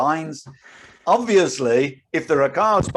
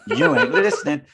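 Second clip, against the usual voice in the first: laughing through a retort; 3 semitones higher, 5 dB louder than usual. Retold or imitated. Retold row, laugh heard.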